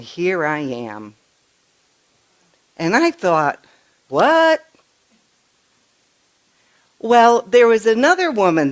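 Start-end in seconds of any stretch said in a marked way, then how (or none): 4.1-4.6 high, loud astonished what; stunned what. Retold or imitated. Nana reacting to the child's story, astonished. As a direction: gasp it out in disbelief.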